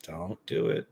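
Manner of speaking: high, rising warning; a lilting caution to a pet; warning the dog. Real, not acted. Owner to grooming dog, singsong warning.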